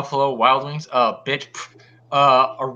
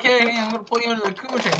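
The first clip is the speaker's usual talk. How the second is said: quick, lightly put-on voice; quoting a streamer; 5 semitones higher, faster than usual. Imitating a streamer's invite, quick and light. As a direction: toss off a rushed imitation. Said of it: "He's gonna be like".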